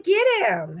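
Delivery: high urging get him; husband urging again. Retold or imitated. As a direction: push her gently to take him. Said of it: "He's like".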